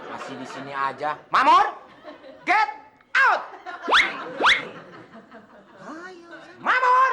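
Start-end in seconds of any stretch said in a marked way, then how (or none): 1.3-7.1 bossy hammed-up call, much higher and louder; mock boss yell. Rich boss yells at his driver to get out. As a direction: shout the driver's name high and loud.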